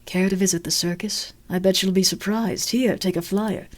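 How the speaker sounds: a hint of a posh carnival barker; posh clown. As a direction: invite like a polite showman. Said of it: "You're very posh".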